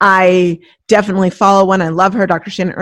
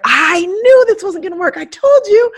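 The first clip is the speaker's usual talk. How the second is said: mock I-told-you-so; 9 semitones higher, 5 dB louder than usual. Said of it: "You're like".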